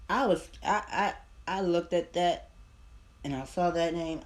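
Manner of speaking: 1 excited shock. Real, not acted. Shock seeing the name.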